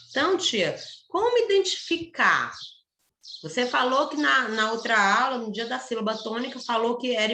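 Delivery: pupil asking. Pretend. Teacher voices a pupil's question.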